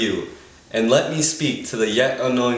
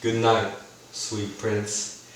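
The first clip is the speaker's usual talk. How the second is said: tender farewell; slower than usual. Acted. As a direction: lay him to rest gently. Farewell over dead prince.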